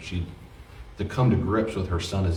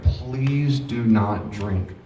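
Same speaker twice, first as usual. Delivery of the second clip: pleading; 3 semitones higher, much slower than usual. Acted. Acted plea to a grieving drinker.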